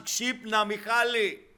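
loud, high urgent shout; shouted wake-up call. Acted. Spiritual alarm clock calls to a sleeping believer, shouting. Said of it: "το πνευματικό ξυπνητήρι φωνάζει".

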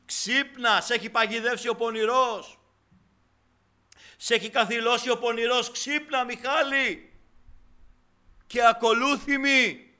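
high, full-force urgent shouting; shouted wake-up call. Acted. Spiritual alarm clock warns a believer trapped by evil, shouting. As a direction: shout a warning to rouse the trapped sleeper. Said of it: "και φωνάζει".

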